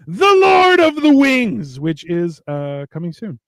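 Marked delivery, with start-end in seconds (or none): 0.1-1.8 announcer plug. Acted. Host announces upcoming show.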